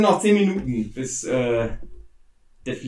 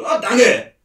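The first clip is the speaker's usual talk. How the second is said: NPC-Stimme; 4 semitones higher than usual. Acted. GM voices thankful NPC.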